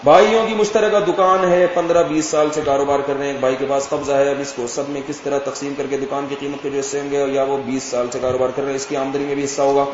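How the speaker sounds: brisk, even-pitched reading of a question; hurried read-out with little tune; quick read-through. Real, not acted. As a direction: rattle through the written question. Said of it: "اب جلدی جلدی بھائی".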